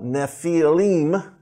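Nephilim said as NEF-ee-leem, stress on the first syllable; Nephilim pronounced. Shown as a demonstration. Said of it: "is how it's pronounced".

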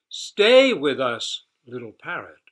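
a gentle deer pleads with her friend; earnest plea to stay; pleading. A narrator's reading. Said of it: "pleaded the gentle deer".

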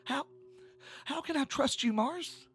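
high-pitched, upset accusation, halting then rushing; angry. A narrator's reading. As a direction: confront her, stumbling over the words. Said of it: "Tish had said angrily".

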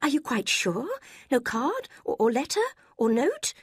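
high, urgent and pleading; young woman anxiously begging for news; anxious pressing. A narrator's reading. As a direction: press him, desperate for a letter. Marianne anxiously pressing the servant.

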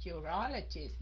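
Urologist with the stress on the second syllable, RO. Shown as a demonstration. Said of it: "Nhấn cái âm thứ hai phải không các anh chị?".

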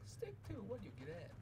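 high squeaky elf voice. Pretend. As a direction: pitch it up like a little elf. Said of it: "What was that?".

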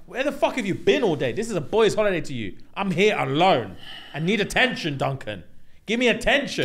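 imitating her demanding protest; mock aggrieved complaint. She tells Duncan she was left alone, mock aggrieved. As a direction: act out the neglected partner, pleading and cross. Retold complaint of neglected partner.

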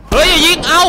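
high, loud cry not to shoot; panicked shout. Acted. Man begs a shooter to hold fire, panicked shout. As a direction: yell out in a sudden panic.

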